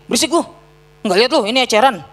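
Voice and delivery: mock scolding. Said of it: "Malah diomelin".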